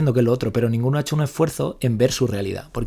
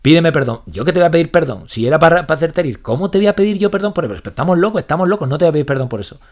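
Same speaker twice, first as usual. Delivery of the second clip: mock indignation; 4 semitones higher, 4 dB louder than usual. Retold row over a joke.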